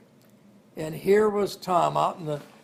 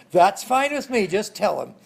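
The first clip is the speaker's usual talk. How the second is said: defiant retort; 4 semitones higher, 6 dB louder than usual. Retold or imitated.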